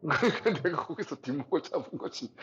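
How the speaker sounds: real laughter through the words; laughing. Real, not acted. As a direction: tell it while cracking up. Laughing at own absurd story. (웃음 섞인 말투)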